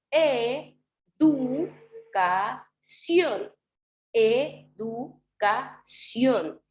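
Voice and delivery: "Educación" stretched out, syllable by syllable; split into slow syllables. Shown as a demonstration. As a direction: break "Educación" into slow syllables, landing on "ción". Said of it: "Hagamos el ejemplo". ("Educación" separado en sílabas lentas)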